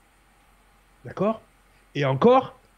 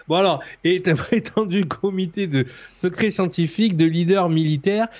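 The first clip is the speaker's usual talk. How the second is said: stifled giggles. Real, not acted. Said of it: "arrête de rigoler".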